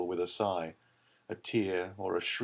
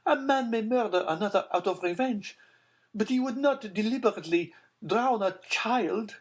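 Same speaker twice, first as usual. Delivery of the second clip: high Baroness voice; 12 semitones higher, 3 dB louder than usual. A narrator's reading. Baroness protesting.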